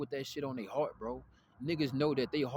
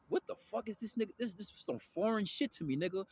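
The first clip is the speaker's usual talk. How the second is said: put-on young self; 7 semitones higher than usual. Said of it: "I'm like".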